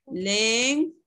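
"len" sounded out alone, drawn out; first syllable "len" held on its own; single syllable. Shown as a demonstration. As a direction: dictate "len" as a separate syllable. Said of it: "las vamos a dividir en sílabas".

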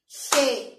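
Gelatina split as ge-la-ti-na, loud and clapped; clapped syllables. Shown as a demonstration. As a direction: tap out Gelatina in four beats. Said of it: "¿Cuántas palmadas he dado?". (Gelatina silabeada con cuatro palmadas)

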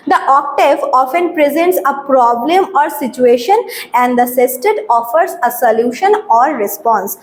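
slow, deliberate English reading, word by word; slow dictation reading. Shown as a demonstration. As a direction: read the definition out slowly for students to copy. Teacher slowly reads English definition.

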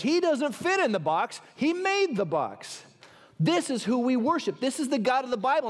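sermon in full flow; emphatic preaching. Real, not acted. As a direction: preach it with conviction, leaning on key words. Preaches to congregation with rising force.

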